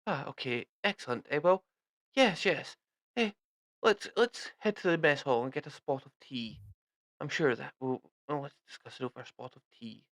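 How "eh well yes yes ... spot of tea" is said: brisk British army host; a hint of a jolly British officer. British officer NPC speaking.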